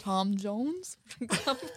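Welsh accent. Shown as a demonstration. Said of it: "Was that supposed to be a Welsh accent?".

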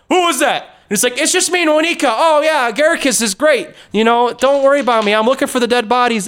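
high breezy fib; high bluffing voice. Retold or imitated. Voicing Monica bluffing guards.

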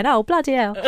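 lightly voiced, unconvincing impersonation; a half-hearted go at mimicking him, laughing; Ben Bailey Smith. Quiz host imagining a celebrity's reaction, lightly voiced impersonation. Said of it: "Ben Bailey Smith will go".

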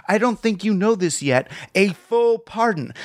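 knowing aside with a wink; conspiratorial aside. Retold or imitated. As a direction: slip it in like a wink and nudge. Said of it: "like an aside to the guy".

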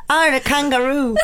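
put-on rough stab at an Australian accent; bad Australian accent. Cohost auditions for Eurovision, shaky attempt at Australian accent. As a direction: have a go at Australian, badly. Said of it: "Let me think about this".

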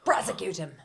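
whispered demand; whispering. Pretend. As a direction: hiss it under your breath.

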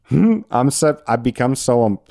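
laughing through sudden tears; a laugh catching in the throat; choked-up laugh. Real, not acted. Podcaster tearing up about kids graduating, choked laugh. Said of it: "that made me tear up a little bit".

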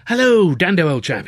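loud high greeting that drops back at the end; an eager shout of welcome; cried out. A narrator's reading. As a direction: call out his name gladly. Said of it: "he cried".

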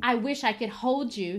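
a touch of bitter longing. Acted. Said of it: "she continued bitterly".

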